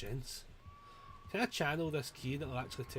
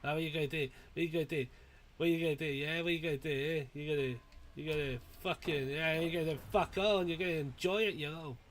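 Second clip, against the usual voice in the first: sing-song taunt; 3 dB louder, faster than usual. Real, not acted. Gamer goads the helpless killer, teasing. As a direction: goad him like a schoolyard bully.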